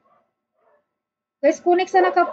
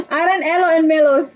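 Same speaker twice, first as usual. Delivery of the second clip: names read through a real laugh; faster than usual. Real, not acted. Streamer rereading a viewer's odd name, laughing. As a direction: break up laughing as you read.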